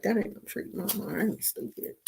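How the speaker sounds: a dog's sulky answer, low and quiet; voicing the dog. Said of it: "He's like".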